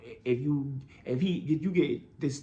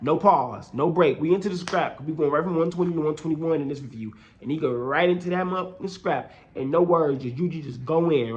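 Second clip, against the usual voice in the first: hyped up; 4 dB louder than usual. Real, not acted. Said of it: "hyped about the fight".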